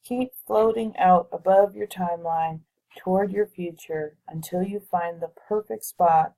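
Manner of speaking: measured meditation guide with long pauses between phrases; guided visualization. Real, not acted. Guiding listeners to float above their future timeline, guided visualization voice. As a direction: lead them through it unhurriedly, pausing to let them picture it.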